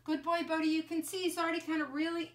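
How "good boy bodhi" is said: calm, reassuring praise for a nervous dog; soothing words to a scared dog. Real, not acted. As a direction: settle the dog with gentle praise. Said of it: "keep your voice really positive, really calm".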